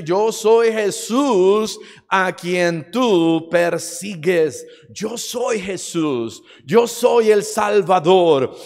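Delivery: slow, emphatic proclamation; solemn preacher voicing Christ; Jesus declaring himself. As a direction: proclaim it slowly, each title weighted.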